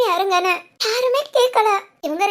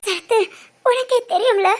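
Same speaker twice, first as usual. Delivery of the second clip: tearful, sobbing complaint; crying. Acted. Woman tells Sarathu how Siddharth broke her trust, crying. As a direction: pour it out through tears. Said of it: "அழாதடி".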